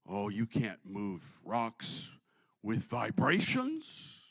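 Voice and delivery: mock doubter. Voices a doubter after the Jericho story.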